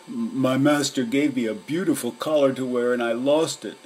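big dog's voice, high and wavering; a worried dog near tears, pitched high; trembling voice. A narrator's reading. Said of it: "His voice trembled".

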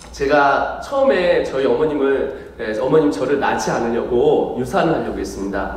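usual speaking voice

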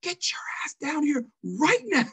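high, strained mock command over the intercom; imitated drill sergeant. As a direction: bark the order down like a sergeant on the intercom. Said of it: "he said".

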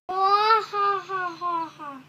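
bursting into loud laughter. Real, not acted. Kid laughs loudly after plan.

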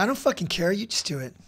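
mild re-enacted flare of irritation; irritated snapping. Husband brushing off his wife while working on gear, irritated. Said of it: "I never used to talk like this".

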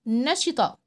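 quick kasra in نشط; short i in نشط. Shown as a demonstration. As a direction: keep the i of نشط brief. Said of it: "الكسرة حركة قصيرة".

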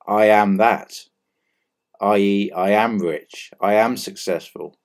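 slow, sincere affirmation; deliberate, heartfelt claim; with feeling behind it. Shown as a demonstration. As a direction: say it slowly and mean it. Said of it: "with feeling behind it".

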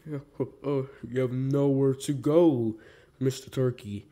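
slow, gloating threat; mock menacing hunter. Hunter cornering Mister Turkey, mock menace. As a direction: gloat over your cornered prey.

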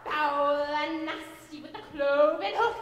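spooky shout. Acted. Pirate spooks the lord.

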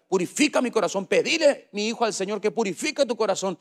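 high nasal grandma repeating a prayer; grandmother's nasal voice. Retold or imitated. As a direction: nag gently, over and over, in grandma's voice. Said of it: "mi abuela me decía".

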